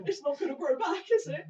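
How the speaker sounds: laughing through the words; can't stop laughing as you say it. Real, not acted. Laughing at a man's stub.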